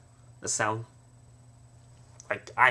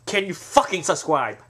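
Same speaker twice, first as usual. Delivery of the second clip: louder, fucking subscribe punched; forceful pushy request; louder demand; 3 semitones higher, 5 dB louder than usual. Shown as a demonstration. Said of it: "I'm just gonna go".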